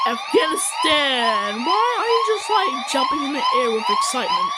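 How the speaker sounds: high, excited squeal. Real, not acted. Watching Afghanistan jump, high excited squeal. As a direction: squeal it out with delight.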